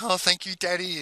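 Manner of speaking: a hint of a child's voice; grateful children. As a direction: lightly imitate grateful little kids. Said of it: "And they're like".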